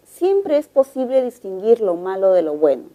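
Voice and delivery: statement tune, falling at "bueno"; descending tone. Shown as a demonstration. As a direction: let "lo malo de lo bueno" settle downward. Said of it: "el tono es descendente".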